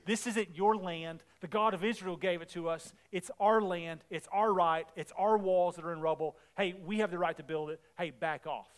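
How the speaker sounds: low-key, firm retort, acted out; imitating a resolute leader, dropping low to finish; courageous resolve. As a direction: stand your ground without raising your voice. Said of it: "Man, what courage, what resolve".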